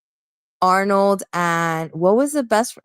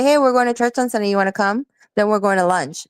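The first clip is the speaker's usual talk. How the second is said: straightforward invitation; 3 semitones higher, faster than usual. Shown as a demonstration. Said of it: "can't she just say".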